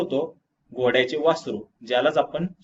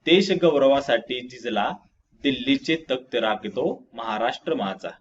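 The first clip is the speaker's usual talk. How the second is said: poem recitation. Acted. Teacher reading the Maharashtra anthem stanza, poem recitation. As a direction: recite with stretched, lilting line ends.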